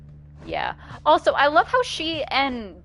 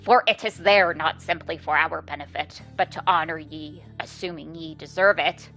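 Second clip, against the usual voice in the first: Bertrude voice; 3 semitones lower than usual. Acted. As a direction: intone it like an ancient seer. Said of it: "doing her voice sucks".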